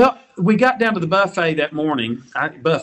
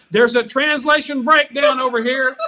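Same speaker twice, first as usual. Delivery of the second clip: laughing yell; 11 semitones higher than usual. Retold or imitated. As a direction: shout it out, laughing and half crying. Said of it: "Darren yelled out".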